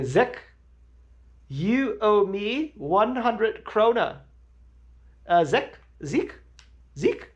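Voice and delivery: high, slow nasal-free mock voice of a pushy friend; imitating a friend. Mimicking the friend calling out for owed krona, high-pitched. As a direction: ham up the friend demanding his money. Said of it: "That's how he called it".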